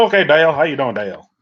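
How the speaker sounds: mock country accent with a stretched Dale; attempted country accent. Host greets Dale in the retold meeting, attempted country accent. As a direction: try out a country accent, not quite convincingly. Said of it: "I'm trying to do the country accent".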